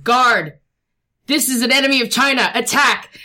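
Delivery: put-on loud, fast Mongolian-accented command. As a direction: bark orders in a Mongolian accent. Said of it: "notice your Mongolian accent".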